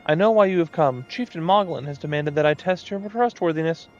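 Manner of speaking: high, showy moogle painter; moogle artist voice. Acted.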